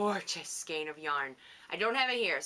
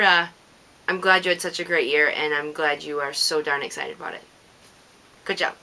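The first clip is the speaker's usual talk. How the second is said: louder, fast cheerful shout-out; 13 dB louder than usual. Real, not acted. Shouting congratulations to Heather about her year. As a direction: boom out the praise.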